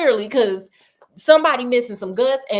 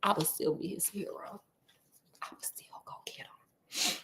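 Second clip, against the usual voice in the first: whimpered vow; 3 semitones lower, 15 dB quieter than usual. Pretend. Mock-tearful vow to Scott.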